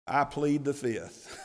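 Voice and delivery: slow plea breaking into a laugh; laughing mock plea. Priests dodging Jesus's question, laughing plea. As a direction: chuckle through the lawyer's line. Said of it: "like any good lawyer would tell them".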